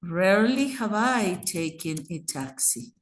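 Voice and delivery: Rarely stretched at the front, then falling away; stress on RARELY. Shown as a demonstration. Teacher demonstrates emphasis at the beginning, stress on Rarely. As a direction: put the weight on the opening Rarely. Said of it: "I want to emphasize rarely".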